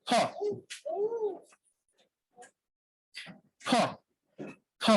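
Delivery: ফ said as a soft breathy puff with lips nearly closed, no voice; voiceless ফ sound demo. Shown as a demonstration. Teacher showing students the unvoiced ফ, isolated and slow. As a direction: blow ফ out as pure air. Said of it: "আমার ঠোঁট দুটা বন্ধ থাকবে".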